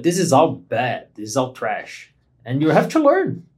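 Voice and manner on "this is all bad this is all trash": low, slow, mildly damning; slow, low-key write-off of your old work; dismissive self-verdict. Retold or imitated. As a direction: quote your own harsh verdict, slowly sinking in pitch. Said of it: "I look back now and I'm like".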